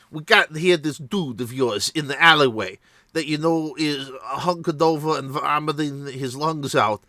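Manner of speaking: put-on loose half-Schwarzenegger, half-Jeff accent, lightly done; a hint of a Schwarzenegger accent, scolding. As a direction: fake a sloppy Schwarzenegger-style accent to con the staff. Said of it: "That's like a half Schwarzenegger, half Jeff from Seth's channel".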